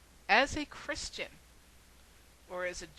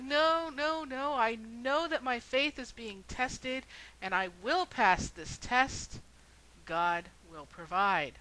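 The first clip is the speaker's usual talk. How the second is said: higher, louder, adamant no, no; stubborn raised insistence; louder refusal; 3 semitones higher, 5 dB louder than usual. Retold or imitated. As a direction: refuse the ladder defiantly. Final refusal to helicopter.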